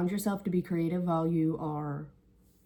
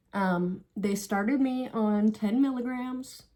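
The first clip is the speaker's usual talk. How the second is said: steady voice with shaky moments; nervous, slightly wavering voice; slower than usual. Real, not acted. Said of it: "Sorry if my voice sounds shaky".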